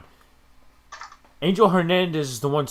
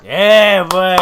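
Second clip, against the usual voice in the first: excited cheer; 3 semitones higher, 15 dB louder than usual. Real, not acted. Celebrating a double.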